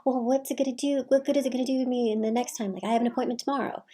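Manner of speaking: a nagging mother voice, lightly acted; complaining mother. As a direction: play the guilt-tripping mom.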